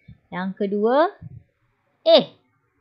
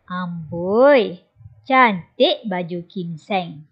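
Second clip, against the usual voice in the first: lower, slow, admiring compliment; admiring amboi; 4 semitones lower, slower than usual. Acted. Aunt admiring Kim Seng's shirt, warmly teasing. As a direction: draw out the praise fondly.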